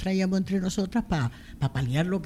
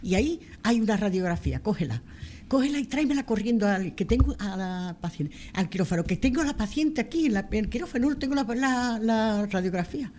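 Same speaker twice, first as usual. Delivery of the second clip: quoted surgeon in a rush, higher and urgent; doctor con prisa; 4 semitones higher than usual. Retold or imitated. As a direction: hurry her along like a busy surgeon on the phone. Doctor urgente por teléfono. (médico apurado pidiendo la radiografía)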